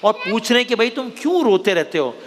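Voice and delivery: put-on storytelling to kids. Host telling children a crocodile story, storyteller's read. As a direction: tell it like a bedtime tale.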